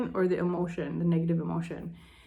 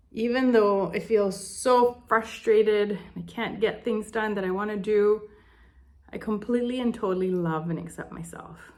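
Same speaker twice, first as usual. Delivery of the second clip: tapping affirmation. Shown as a demonstration. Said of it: "you're gonna say the same sentence".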